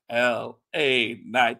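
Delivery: name stretched out very slowly; drawn-out announcement. Retold or imitated. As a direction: spell it out slowly, as if summoning him. Mimics summoning wrestler by name.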